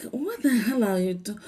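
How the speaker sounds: incredulous, laughing by the end; amused disbelief. Retold or imitated. Vlogger reacting to a woman's odd accent, amused disbelief. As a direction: question it in mock bafflement.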